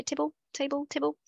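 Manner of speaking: table then tibble, NZ vowel; New Zealand accent. Shown as a demonstration. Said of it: "when you say table in a New Zealand accent".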